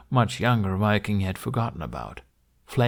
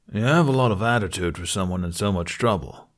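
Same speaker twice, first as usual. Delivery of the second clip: a hint of a deep, even Viking; deep calm Viking. Viking calmly scolding captive Hiccup in a deep voice. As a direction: speak calmly, as if heard anywhere. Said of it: "His voice was deep and somehow loud and soft".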